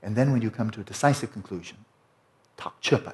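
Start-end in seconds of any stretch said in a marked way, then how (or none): 2.6-3.1 Tibetan term said in a whisper. Real, not acted. Teacher whispers the Tibetan term. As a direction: drop to a whisper for the word.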